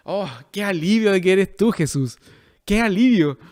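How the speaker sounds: relieved, as if recognising a rescuer; acted relief. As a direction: let relief wash over each phrase. Voices the disciples' relief at Jesus.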